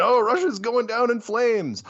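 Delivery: a touch of slow, sing-song scorn; mocking media quote. Host mocking Western media predictions, slow and scornful. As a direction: mimic the pundits with a sneer.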